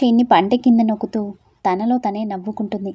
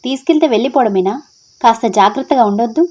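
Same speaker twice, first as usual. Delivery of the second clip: loud, exasperated reproach; scolding shout; 2 semitones higher, 6 dB louder than usual. Acted. Friend scolds Tara for not being careful, loud and reproachful. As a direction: tell her off loudly for being careless. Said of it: "ఇప్పుడెందుకు నా మీద అరుస్తున్నారు?".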